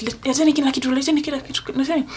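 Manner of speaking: barking orders like an armed thug; robbers' demand. Retold or imitated. Robbers ordering the family to hand everything over, demanding. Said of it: "They're like".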